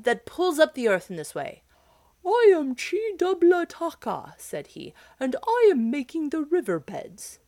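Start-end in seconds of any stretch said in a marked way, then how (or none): 0.0-1.6 loud demanding question; cry out. Acted. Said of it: "cried Makoma". 2.3-4.3 high, loud booming giant voice; proud giant. Acted. Giant announces himself. 5.2-7.4 high, loud booming giant voice; proud giant. Acted. Giant continues.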